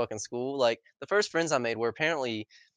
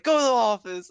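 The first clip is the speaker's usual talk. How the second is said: higher, louder teacher command; stern order; 9 semitones higher, 6 dB louder than usual. Retold or imitated. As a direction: order him out like an angry teacher. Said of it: "And she's like".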